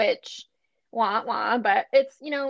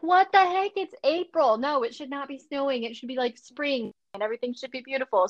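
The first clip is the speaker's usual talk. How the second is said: exasperated; 2 semitones higher than usual. Retold or imitated. Telling friend about April snow, mock exasperation. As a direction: complain like spring betrayed you. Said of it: "And then you're like".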